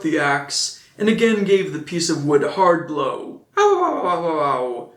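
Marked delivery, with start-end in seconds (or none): 3.6-4.9 put-on very high Italian-accented yelp of pain; a hammed-up ow from a little puppet voice; very high, mock-pained puppet; high cry of pain. A narrator's reading. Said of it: "cried the little voice, as if in pain".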